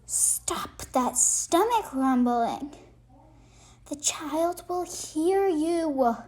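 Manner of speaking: lightly voiced monster snarl, slow at the end; a hint of a gruff monster snapping. Monster under the bed hushing the others, mild snarl.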